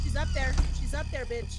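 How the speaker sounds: yelling across the room. Real, not acted. Warning teammates across the map.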